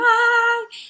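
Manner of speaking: high, loud fake wail; mock child's crying. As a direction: wail like a child arriving in tears. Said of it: "él llega llorando". (llanto fingido de niño, agudo)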